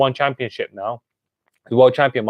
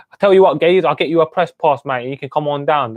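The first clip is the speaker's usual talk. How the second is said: Dave O'Donnell's Cockney; 3 semitones higher than usual. Retold or imitated. Fight promoter invites an old training mate down, lightly imitated Cockney. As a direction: punch the opening in imitated Cockney, then ease down. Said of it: "in his Cockney accent, I'm sure".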